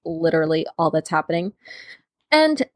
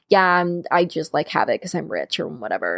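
mock nonchalant brag; 3 semitones lower than usual. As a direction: toss it off as a mock humblebrag. Mimicking rich guy shrugging off wealth.

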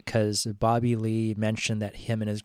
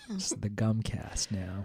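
chewing gum; 7 dB quieter, slower than usual. Real, not acted. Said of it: "I'll stop chewing".

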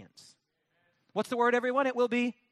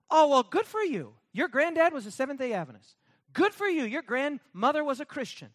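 higher, louder scornful "good for you"; mocking; 4 semitones higher, 3 dB louder than usual. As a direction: brush off their pride with mockery. Mocking reply to smug believer.

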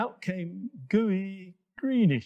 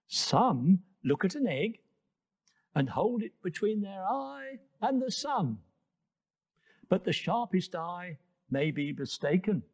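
warning wise monkey; 3 semitones higher than usual. Acted. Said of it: "he warned".

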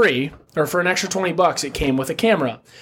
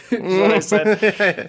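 laughing; 6 semitones higher, much slower than usual. Real, not acted. Laughing at his own joke.

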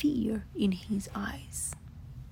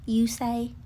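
louder, no-nonsense voice; declaring Rabbit; 4 semitones higher, 6 dB louder than usual. Acted. Rabbit briskly declares he'll sort out the monster. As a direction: take charge of the problem. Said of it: "Rabbit declared".

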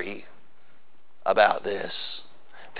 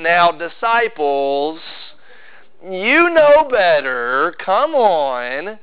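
gentle mild rebuke; much slower than usual. Retold or imitated. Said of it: "It wasn't like Jesus was like".

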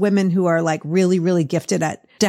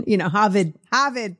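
Boston accent, Harvard as Hahvid with no r. Shown as a demonstration. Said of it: "my Boston accent was like".

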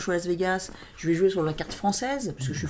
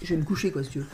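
normal talking voice

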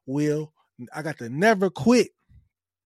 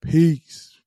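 emphatic sign-off; 7 dB louder than usual. Shown as a demonstration. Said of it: "That's how you do it".

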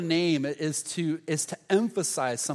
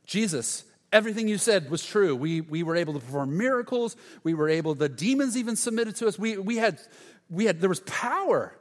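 high, eager, tumbling reporting; excited disciples; 4 semitones higher than usual. Retold or imitated. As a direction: burst with news of miracles. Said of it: "so excited".

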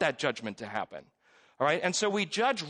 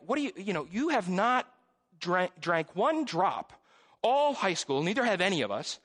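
raised, pitched-up scolding of a friend; mock angry scolding; 5 semitones higher than usual. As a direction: lecture him with rising indignation. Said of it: "We were legit mad at him".

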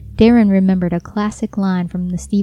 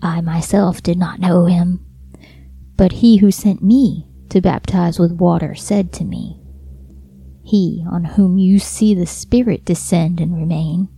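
lightly warbling, whispered monster; a hint of a warbling creature voice. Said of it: "that warbling voice again".

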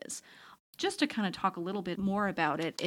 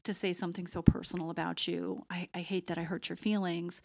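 soft apology. Retold or imitated. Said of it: "instead of saying".

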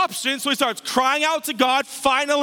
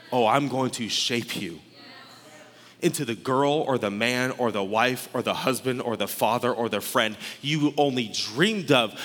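low, soft divine promise; tender God; 11 semitones lower, 4 dB quieter than usual. Acted. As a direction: speak low and gently, as God forming someone. Speaks as God shaping you.

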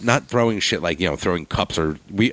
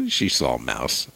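ordinary talk, nothing marked

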